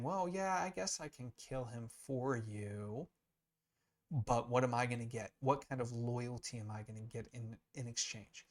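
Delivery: offhand agreement turning into a haggling question; bargaining Pilate. Retold or imitated. Teacher voicing Pilate haggling with the Sanhedrin, lightly cynical. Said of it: "so Pilate's kind of saying".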